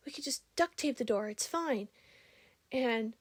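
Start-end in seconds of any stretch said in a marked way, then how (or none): 0.1-1.9 higher mock voice, breezy and dismissive; imitating casual guy. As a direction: toss off the fix like it's nothing. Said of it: "one of the guys goes".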